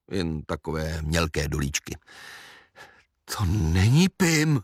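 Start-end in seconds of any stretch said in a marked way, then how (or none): 3.2-4.6 slow, panting protest; aunt out of breath from running, puffing. Acted. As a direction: puff the words out after running. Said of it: "funěla teta".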